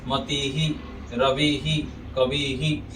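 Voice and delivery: मति ही, रवि ही, कवि ही ending in "hee"; echoed i vowel. Shown as a demonstration. Teacher models the rule, मति ही, रवि ही, कवि ही with "hee". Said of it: "ही का उच्चारण होगा".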